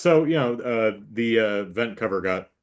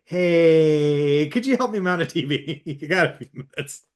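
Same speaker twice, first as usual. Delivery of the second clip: imagined favour-asking, high and wheedling; pleading request; 6 semitones higher, 3 dB louder than usual. Pretend. Tenant imagines bugging landlord for help, high pleading voice. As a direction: put on a high, hopeful call for help.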